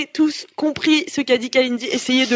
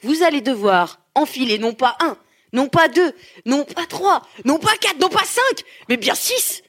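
hammy stage actor; 3 semitones higher than usual. Acted. Building countdown announcement.

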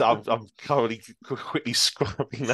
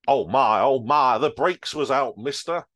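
flustered, louder trucker; flustered truck driver; 3 semitones higher, 4 dB louder than usual. Acted. Driver scrambling from cab, flustered pleading. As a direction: gabble it out like a shaken driver. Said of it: "said the truck driver as he scrambled".

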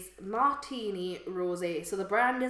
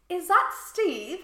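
tentative raised voice on the phone; a nervous high check; high nervous question; 9 semitones higher, 7 dB louder, slower than usual. Retold or imitated. Calling a stranger's number, asking nervously.

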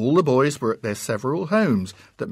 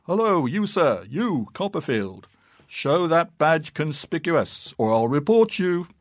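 louder, higher roaring bellow; 4 semitones higher, 5 dB louder than usual. A narrator's reading. Wooden-legged man roaring at the boy from his lodge door. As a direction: bellow it across the yard. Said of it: "roared out ... in a stupendous voice".

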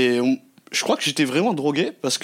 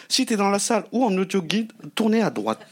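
gps voice; 5 semitones higher than usual. Retold or imitated. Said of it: "on dirait qu'elle a parlé comme un G P S".

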